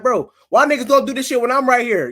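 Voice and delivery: loud, high-pitched protest; acted indignation. Man retelling thefts to his friend, loudly indignant.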